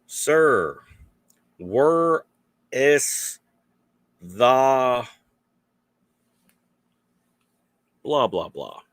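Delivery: high, loud, drawn-out question; lost German tourist. Retold or imitated. German visitor asking a local for directions, high and loud. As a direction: ask the way like a lost foreigner. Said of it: "they are like".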